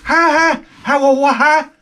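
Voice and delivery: nervous stammering laugh. Retold or imitated.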